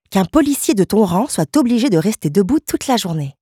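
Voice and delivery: lightly voiced wife, gently indignant; devoted wife, indignant. Wife protesting on her policeman husband's behalf, mildly indignant.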